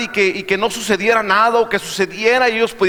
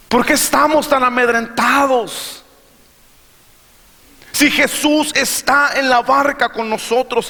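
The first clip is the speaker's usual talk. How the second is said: emphatic sermon with weighty pauses; impassioned preaching; 4 semitones higher, slower than usual. Real, not acted. Preacher asking believers why they fear, emphatic preaching. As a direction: press each question on the congregation.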